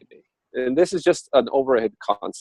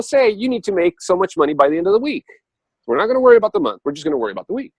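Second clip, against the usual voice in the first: higher, teasing cosmic voice; a spirit guide gently lecturing Richard, higher; the universe talking; 4 semitones higher than usual. Retold or imitated. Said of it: "Let's do it again".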